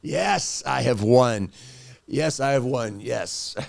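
lightly voiced sinister victor; gloating demon. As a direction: savour a villain's win, then cackle. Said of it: "it's sarcastic and it's sinister".

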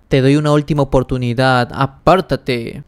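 mock shout at normal volume, stretching the ending; mild acted yell. Father threatens the one in his way, mild acted yell. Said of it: "Pisa bien fuerte y grita".

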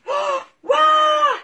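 loud high startled cry; startled puppy. Acted. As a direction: jump in fright then ask.

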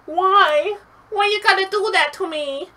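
high, loud exasperated whine; annoyed gamer wail; frustrated outburst. Real, not acted. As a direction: whine at the game. Frustrated after dying.

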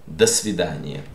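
До свидания as one linked word, "dasvidaniya"; O pronounced as A. Shown as a demonstration. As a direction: reduce До to "da" in До свидания. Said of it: "this O is pronounced A".

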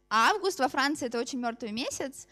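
ordinary delivery

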